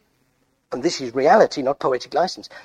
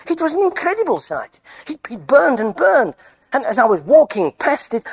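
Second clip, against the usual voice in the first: high-pitched, amazed eyewitness; excited recounting; 5 semitones higher than usual. Acted. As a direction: tell it like an astonished witness, pitch leaping up. Moses excitedly recounts burning bush.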